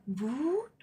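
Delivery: mild whoop. Retold or imitated. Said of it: "and then he does his circuit again".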